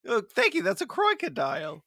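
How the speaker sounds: silly, off-target mock-Russian accent; botched Russian accent. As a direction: thank them in a terrible Russian accent. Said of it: "crikey Russian accent".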